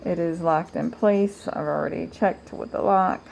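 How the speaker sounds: muffled through a face mask; talking behind a dust mask. Real, not acted. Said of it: "Sorry if I sounded muffled".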